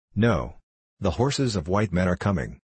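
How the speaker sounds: ordinary delivery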